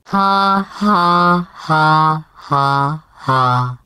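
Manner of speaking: spoken ha ha ha stepping down in pitch; fake laugh. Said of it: "You know what makes me laugh?".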